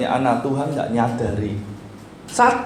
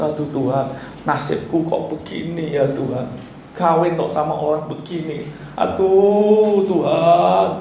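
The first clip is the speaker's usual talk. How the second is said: self-pitying lament; 4 semitones higher than usual. Retold or imitated. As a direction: parody a whiny prayer to God. Mocking a self-pitying prayer. (ratapan mengasihani diri yang dibuat-buat)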